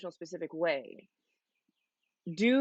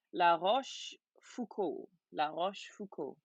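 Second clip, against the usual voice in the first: attempted French accent on a name. Shown as a demonstration. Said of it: "my French accent there".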